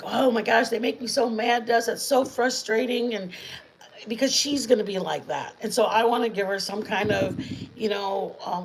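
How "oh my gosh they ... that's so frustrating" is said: mock frustration. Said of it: "instead of being just like".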